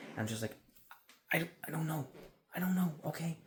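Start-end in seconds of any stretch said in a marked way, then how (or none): 1.3-3.4 high-pitched fed-up plea; helpless, exasperated. Acted. Phone worker answering complaining callers, helpless and exasperated. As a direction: throw up a high, defensive protest.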